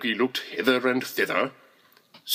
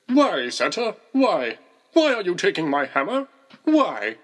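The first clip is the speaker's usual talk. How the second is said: put-on a much higher, louder pleading child's voice; small child; 6 semitones higher, 4 dB louder than usual. A narrator's reading. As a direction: plead like a bewildered toddler. Child confronts Santa.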